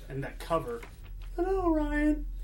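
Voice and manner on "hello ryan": very high British character voice. Reviewing a comic, greeting the other host in a Danny Moonstar voice. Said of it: "That's my Danny Moonstar voice".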